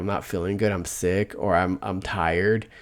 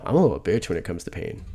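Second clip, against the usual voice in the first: normal talking voice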